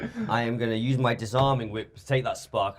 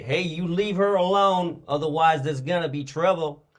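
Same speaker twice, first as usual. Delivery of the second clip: firm warning; 3 semitones higher, 3 dB louder than usual. Acted. Player warns thugs to leave her alone, stern. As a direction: lay down the law. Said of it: "I say".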